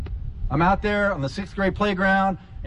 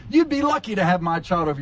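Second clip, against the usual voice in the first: mock bragging. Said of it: "bumper sticker is basically saying".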